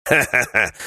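a short hearty mocking guffaw; mocking laugh. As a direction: laugh at your friend's excuse. Dwarf mocks his friend.

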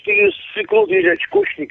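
high, scornful jeer; angry taunt. Real, not acted. Caller calling him a coward, high jeering voice.

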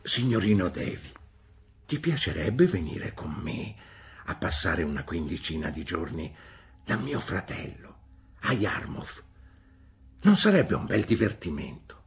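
gently persuasive nurse; suadente, persuasive; coaxing. Acted. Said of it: "Mi disse in modo suadente".

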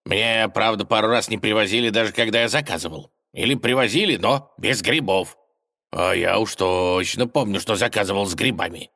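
impostor's whiny voice. Acted. Werewolf impostor complains about pizza.

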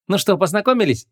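скучающе. A narrator's reading. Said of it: "скучающе осведомилась Флоренс".

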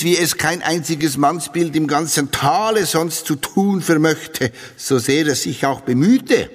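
lusty diary voice. Acted. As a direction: read it like a lusty tanner's wife. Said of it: "Ich zitiere".

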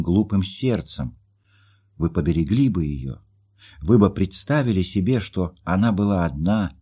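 Nastenka's hurt pleading, a mild lift of voice; pleading young woman. Acted. Jilted young woman pleads with her friend, lightly voiced.

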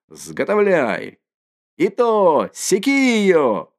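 put-on drunken rallying cry.

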